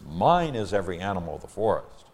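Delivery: "mine" picked out emphatically; stress on MINE. Acted. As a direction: put the weight on the opening "mine". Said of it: "emphatic pronoun".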